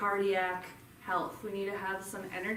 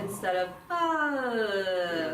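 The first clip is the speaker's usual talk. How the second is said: short sigh with the mouth closing; closed-mouth sigh; 3 dB louder, much slower than usual. Shown as a demonstration. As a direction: cut the sigh off early. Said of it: "A lot of people do that".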